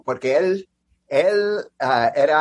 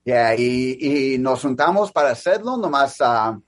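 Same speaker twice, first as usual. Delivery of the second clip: American accent Spanish; 2 semitones lower than usual. Real, not acted. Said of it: "disculpa mi español porque es mi segundo idioma".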